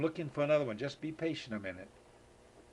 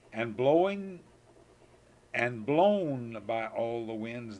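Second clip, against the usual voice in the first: slow, sing-song recital, often louder; poem reading; 4 dB louder, slower than usual. Acted. Grandpa reciting the cow poem to Megan, slow sing-song. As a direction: savor each line for the little one.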